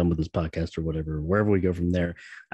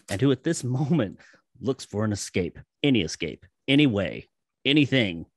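narration read. Acted. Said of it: "I'll let you read it out there".

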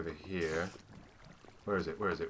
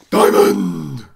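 thrilled at the treasure; excited find; 9 semitones higher, 19 dB louder than usual. Real, not acted. Miner spotting his first diamond, thrilled high cry. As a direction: gasp then a high, loud cry of Diamond.

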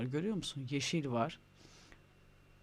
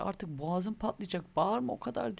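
mock exasperated scolding; 4 semitones higher than usual. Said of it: "diyorum ki".

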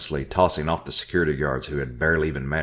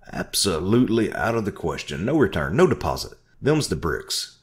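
loud, higher refusal shout; 5 semitones higher, 4 dB louder than usual. Acted. Orville refusing her refund, shouting. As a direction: flatly refuse at the top of his voice. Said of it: "he shouted".

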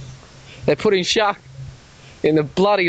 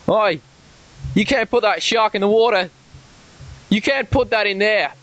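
higher, calling out across the water in a put-on Australian accent; mock Australian holler; 3 semitones higher than usual. Caller reenacting yelling at the shark droppers, mock Australian holler. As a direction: holler Oi at the boaters across the lake, Aussie style. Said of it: "I started saying".

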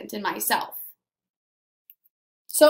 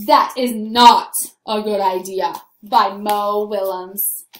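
slow, deliberate title reading, dropping lower; story title presentation; 4 semitones lower, slower than usual. A narrator's reading. Teacher opens the story for scholars, slow and deliberate. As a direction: present the title and author with ceremony.

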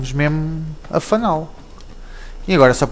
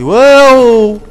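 loud, high whoop of delight; excited whoop; 8 semitones higher, 9 dB louder than usual. Real, not acted. Gamer whooping at a big jump. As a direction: let out a thrilled yelp. Exclaiming while jumping.

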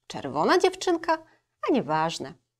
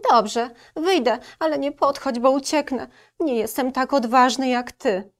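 warning wolf; 6 semitones higher, 5 dB louder than usual. Acted. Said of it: "ostrzegł wilk".

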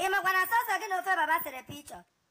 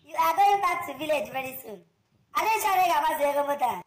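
loud, scolding rebuke; angry scolding; 6 dB louder than usual. Acted. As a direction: tell him off loudly.

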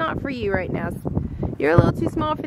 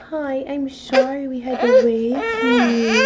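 slow, tender crooning apology; much slower than usual. Real, not acted. Tender apology to waking baby.

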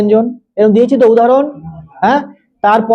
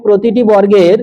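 slow dictation. Acted. Teacher dictating.

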